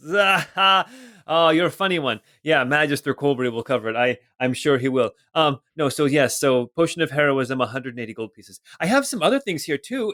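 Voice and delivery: lightly voiced merchant, nervous laugh then hurried sales patter; a hint of a flustered shopkeeper covering for the joke. Merchant selling to the party, lightly voiced and flustered.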